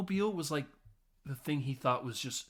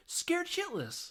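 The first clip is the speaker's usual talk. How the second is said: mock shriek; slower than usual. Reading a label.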